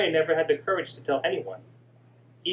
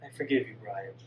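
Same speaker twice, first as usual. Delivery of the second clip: weak whisper; 7 semitones lower, 7 dB quieter than usual. Acted. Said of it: "weak, whispered".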